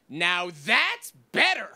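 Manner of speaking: slow, satisfied little nod of a line; slow approving heckler. Retold or imitated. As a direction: drawl it like a pleased drunk. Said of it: "she just stands up and goes".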